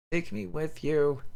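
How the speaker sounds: slow, high, drawn-out begging; dying girl asking her parents to take her, slow and high; slow plea. Acted. Delirious child begging her parents.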